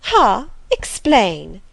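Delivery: sharp, loud imperious command; commanding lady. A narrator's reading. Lady demanding an explanation from Rochester, imperious and loud. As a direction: order him to explain, haughty. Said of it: "commanded the lady".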